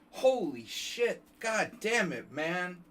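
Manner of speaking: high, loud, slow mock-furious cursing; angry Joe Biden. Cursing out the bus driver, hammed-up angry old-politician voice. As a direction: drag the curses out like a cranky old politician. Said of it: "like, angry Joe Biden".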